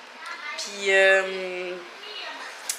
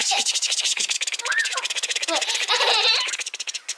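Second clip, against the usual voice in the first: high giggling laugh; 12 semitones higher than usual. Real, not acted. Tickling the toddler.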